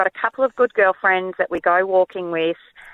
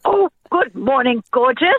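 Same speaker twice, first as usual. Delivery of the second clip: lightly cooed greeting to a dog; a touch of doting dog-talk; 3 semitones higher than usual. Retold or imitated. Caller greets dogs running towards her, dog voice. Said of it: "you know, dog voice".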